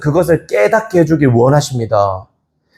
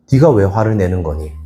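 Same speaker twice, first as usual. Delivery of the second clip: gentle question; 5 semitones lower than usual. Retold or imitated. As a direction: ask tenderly, without anger. God asks gently, not angry. (낮고 부드러운 물음)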